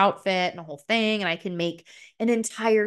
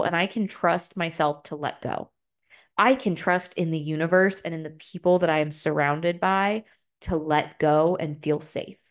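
calm mantra. Real, not acted. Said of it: "a mantra that my therapist gave me".

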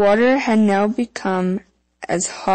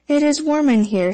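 Nix to himself; 7 semitones higher than usual. A narrator's reading. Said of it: "said the Nix to himself".

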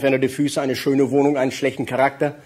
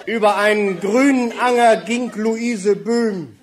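mock-solemn poem; slower than usual. Reciting a comic rhyme.

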